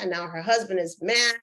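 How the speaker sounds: normal talking voice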